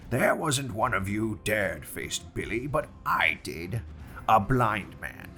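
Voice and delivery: Pew raging at crew. Acted. Pew berating idle men.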